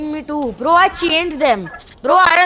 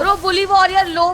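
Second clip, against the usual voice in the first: shouted callout; 4 semitones higher than usual. Real, not acted. Urgent callout in fight.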